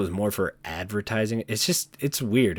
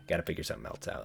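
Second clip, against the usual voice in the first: soft whisper, much lower and quieter; whispered aside; 9 semitones lower, 10 dB quieter, much faster than usual. Pretend. Vlogger repeats advice to kids as a hushed whisper. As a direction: breathe it as a mock secret.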